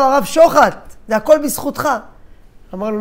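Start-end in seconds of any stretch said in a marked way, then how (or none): 0.0-1.9 raised, louder exclamation; excited greeting. Acted. Bearded man recognizing the rabbi at the Kotel, excited. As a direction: call out with heartfelt gratitude.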